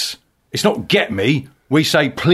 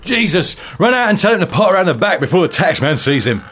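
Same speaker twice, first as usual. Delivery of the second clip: dad voice; 5 semitones higher than usual. Acted. Sketch, dad voice.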